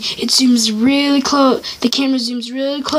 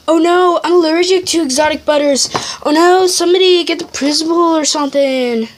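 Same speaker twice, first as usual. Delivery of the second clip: panicked teacher; 4 semitones higher than usual. Retold or imitated. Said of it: "Mister Doge is like".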